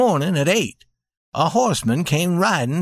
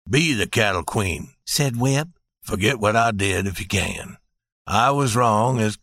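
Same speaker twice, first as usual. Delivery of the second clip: humble plea; 7 semitones lower than usual. A narrator's reading. Husband pleading forgiveness.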